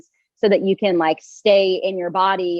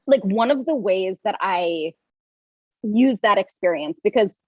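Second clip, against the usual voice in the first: talking through hiccups; hiccuping between words. Real, not acted. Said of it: "I have the hiccups apparently".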